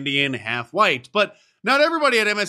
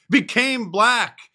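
mocking; 7 semitones higher, much slower than usual. Mocking her claimed identity.

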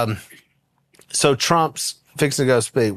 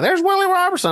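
mock call-out. Imagined fan calling out.

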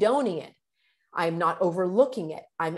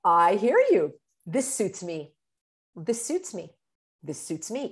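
calm. Shown as a demonstration. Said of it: "You can also say".

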